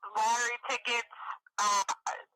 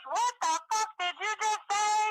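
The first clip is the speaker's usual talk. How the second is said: higher, slow, offended demand; indignant retort; 10 semitones higher than usual. Retold or imitated. Candace snapping at the caller, higher and offended. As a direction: throw it back at her, affronted. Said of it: "She goes".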